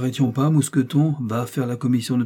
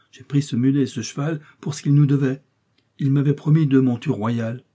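lightly voiced procureuse; 3 semitones higher, 3 dB louder than usual. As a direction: lightly play the flustered lawyer's wife defending herself.

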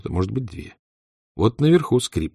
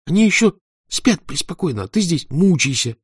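mocking; 10 semitones higher, 4 dB louder than usual. Boy mocks Tanya angrily.

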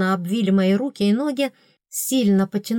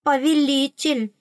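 queen's low explanation; 6 semitones higher than usual. A narrator's reading. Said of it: "вполголоса пояснила королева".

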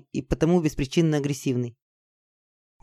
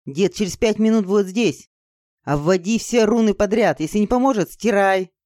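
higher-pitched, pressing orders; urgent command; 4 semitones higher than usual. Acted. Girl ordering her friend to trace runes, urgent.

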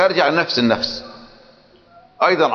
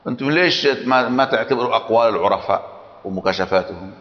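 lightly mocking the opponent's argument; quoting the sheikh; 3 semitones higher than usual. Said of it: "الشيخ ابن جرير يقول".

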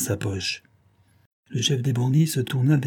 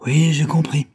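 mock dejected; 6 semitones higher, 5 dB louder than usual. A narrator's reading. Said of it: "feignait pourtant d'être très abattu".

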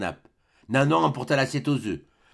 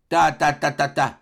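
dismissive tutting; 4 dB louder than usual. Acted. Grandet dismisses nephew.

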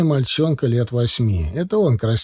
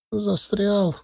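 put-on high, softened child's admission; boy admitting it; 8 semitones higher, 4 dB quieter than usual. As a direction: own up quietly in a small high voice. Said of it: "признал мальчуган очевидное". (мальчик тихо признаётся)

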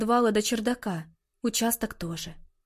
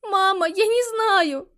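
high, slow, tearful; crying; 9 semitones higher, 4 dB louder, slower than usual. A narrator's reading. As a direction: answer through tears. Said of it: "плача ответила Калиста".

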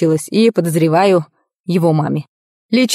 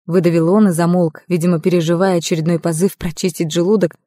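usual speaking voice

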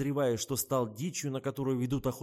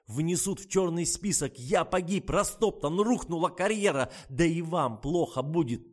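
high, loud, mounting lament; despairing panic; 6 semitones higher, 6 dB louder than usual. A narrator's reading. Kirsavin mourns his career, despairing. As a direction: declaim each blow as total ruin.

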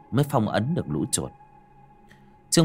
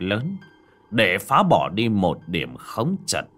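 put-on old master voice. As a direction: speak like a weary old sage. Old Taoist master explains.

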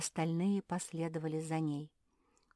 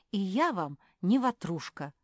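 offended; 4 semitones higher, 8 dB louder than usual. Acted. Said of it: "обиделась Куки".

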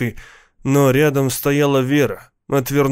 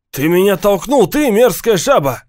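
higher, louder furious yell; 7 semitones higher, 5 dB louder than usual. Acted. Gang kid yelling at someone who shoved him, loud and angry. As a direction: bark it at the guy behind you. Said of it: "заорал один из них".

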